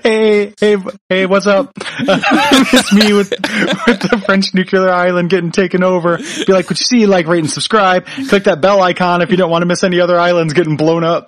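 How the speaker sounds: lightly voiced streamer greeting, laughing through it; mock livestreamer. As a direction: pitch the channel like a chirpy streamer. Pretends to be livestreamer on island.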